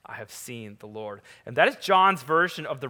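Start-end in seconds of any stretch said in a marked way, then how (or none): 0.1-1.2 repeated softer and lower, lingering; softer echo. Shown as a demonstration. Preacher echoing Mary's words to the congregation, hushed. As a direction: let it sink in gently.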